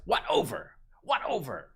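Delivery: high, put-on baffled voice; squawky chat-reader impression; mock confused viewer. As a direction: parrot the question in a silly high voice. Mimics confused chat questions.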